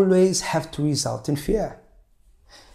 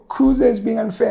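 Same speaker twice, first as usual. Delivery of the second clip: put-on complaining child; 8 semitones higher, 3 dB louder than usual.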